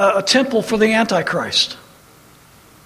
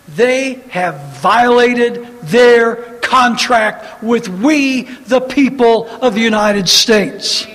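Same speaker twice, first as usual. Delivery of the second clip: slow, louder, hammered out word by word; emphatic slow declaration; 2 semitones higher, 4 dB louder, slower than usual. Real, not acted. Preacher declaring to the congregation, slow and forceful. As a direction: drive it home to the congregation.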